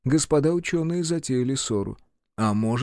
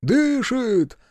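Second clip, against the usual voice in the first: "Дышит!" jumps much higher, joyful; excited echo; 11 semitones higher, 3 dB louder than usual. Acted. Soldiers echoing the medic's news, high and excited. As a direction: cry it out in glad relief. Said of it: "подхватили егеря".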